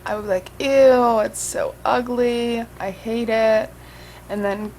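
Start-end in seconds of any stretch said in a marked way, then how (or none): 0.6-3.7 drawn-out, mock-disgusted whine with a loud start. Vlogger mimicking her first reaction to her makeup, disgusted. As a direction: imitate your own exaggerated first reaction.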